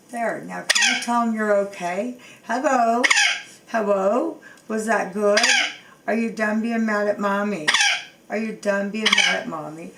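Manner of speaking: chirpy sing-song coaxing to get the parrot to speak; coaxing pet talk. Real, not acted. Owner coaxing bird to talk.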